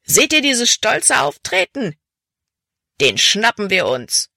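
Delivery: high-pitched rallying cry, dropping at the end; excited shout from a pursuer; calling out. A narrator's reading. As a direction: rouse the gang for the chase. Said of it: "rief jemand".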